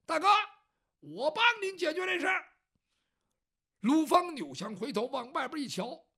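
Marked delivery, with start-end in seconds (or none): 0.0-2.4 higher call from outside; calling from the yard. Acted. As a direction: call in from the courtyard to big brother. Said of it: "在院儿里边就搭了一声".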